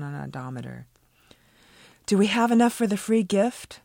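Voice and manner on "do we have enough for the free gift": eager question. A narrator's reading. Brenda asking eagerly.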